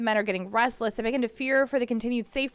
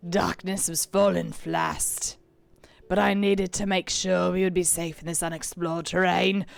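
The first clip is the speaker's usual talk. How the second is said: whispering; 4 semitones lower, 3 dB louder, slower than usual. Acted. Pirate log reading.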